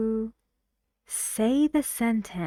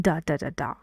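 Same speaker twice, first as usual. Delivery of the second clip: "Da, da, da, da" in sentence rhythm; lower-pitched "Da, da, da, da" as four beats; nonsense syllables; 4 semitones lower, much faster than usual. Shown as a demonstration. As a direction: demonstrate a stress pattern on "da". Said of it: "use nonsense syllables".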